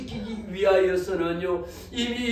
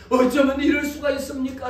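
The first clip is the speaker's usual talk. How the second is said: raised, higher acted lament; wailing protest; 4 semitones higher, 4 dB louder than usual. Elder brother lamenting to his father, wailing. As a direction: protest in mild mock wailing. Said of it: "그 형이 통곡하며".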